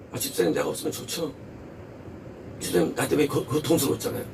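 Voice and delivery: soft, low voice of a self-blaming church member; acted self-blame. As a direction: quietly play someone bowing out for the other's sake. (낮고 조용하게 자책하는 연기)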